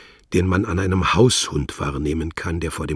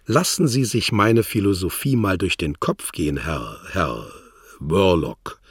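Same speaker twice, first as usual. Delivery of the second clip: mocking, condescending; 3 semitones higher, 3 dB louder than usual. Wladimir sends Worlock off, mocking and condescending. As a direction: talk down to him. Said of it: "sagte er spöttisch herablassend".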